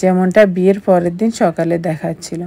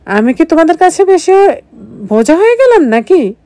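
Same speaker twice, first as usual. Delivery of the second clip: higher, louder wounded protest; hurt protest; 8 semitones higher, 4 dB louder than usual. Acted. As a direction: plead like a hurt daughter. Daughter hurt, protesting to mother. (উঁচু গলায় অভিমানী প্রতিবাদ)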